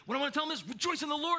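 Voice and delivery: high, quick, excited dictation. Retold or imitated. Paul dictating to his scribe, excited. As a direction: burst out with the big message, pitched high. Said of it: "he gets so excited about it".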